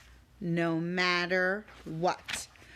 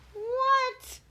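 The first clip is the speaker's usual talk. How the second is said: mock shock.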